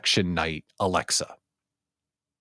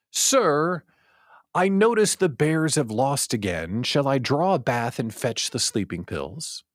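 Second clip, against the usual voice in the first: British butler; 2 semitones higher than usual. Acted. Butler Alexa addressing its owner, lightly put-on formal servant. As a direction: play a butler with no real British accent. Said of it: "imagine that I'm doing a British accent".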